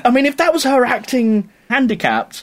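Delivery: laughing through the words. Real, not acted. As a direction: chuckle as you speak. Laughing while talking.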